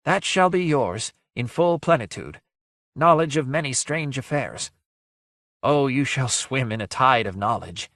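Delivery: high, breathless ghostly sigh; sad, sighing voice. A narrator's reading. Ghost promises Guile knowledge, sad sighing voice. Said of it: "the sad, sighing voice".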